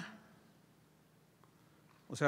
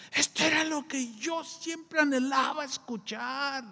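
mock shout; 8 semitones higher, slower than usual. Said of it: "así gritó".

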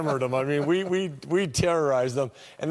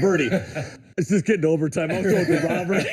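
laughing plea; 3 semitones higher, 3 dB louder than usual. Retold or imitated. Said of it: "And I'm like".

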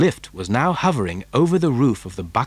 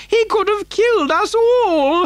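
very high outraged granny screech; old woman's scream; 4 dB louder than usual. A narrator's reading. Grandmother accusing the factory owner, high scream. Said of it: "screamed Grandma Josephine".

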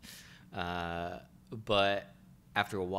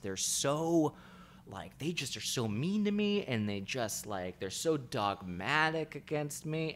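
mock complaint, higher and nasal-free but pouty; whiny victim voice; 5 semitones higher than usual. Therapy client whining that women are mean to him. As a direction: pout out the complaint like a wronged patient.

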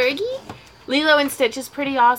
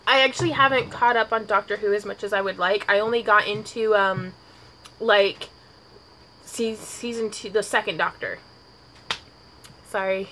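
tipsy; 3 semitones lower than usual. Real, not acted. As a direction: talk a little tipsy, words slurring. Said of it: "I feel bad getting tipsy on camera".

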